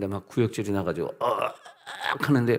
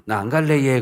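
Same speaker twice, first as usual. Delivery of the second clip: loud refusal; 3 semitones higher, 7 dB louder than usual. Retold or imitated. Refusing to be dragged in.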